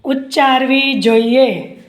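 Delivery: measured phrases with long gaps; slow dictation. Acted. Teacher dictating question and answer to students, slow dictation. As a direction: dictate piece by piece for note-takers.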